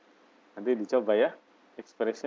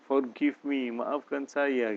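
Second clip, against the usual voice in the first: mildly pitiful, drawn-out plea; pitiful pleading; 3 semitones higher, slower than usual. Shown as a demonstration. Teacher showing how to beg forgiveness, pitiful pleading. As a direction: plead gently for forgiveness, stretching the words. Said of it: "Dengan wajah kasihan gitu ya".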